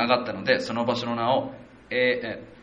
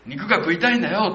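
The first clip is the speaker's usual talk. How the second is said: demanding complaint; 6 semitones higher, 4 dB louder than usual. Retold or imitated. Israelites demanding meat.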